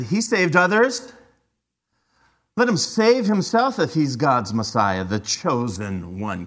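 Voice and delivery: mock the claim, slowing and dropping on the last words; dripping sarcasm. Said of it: "Can you hear the dripping sarcasm?".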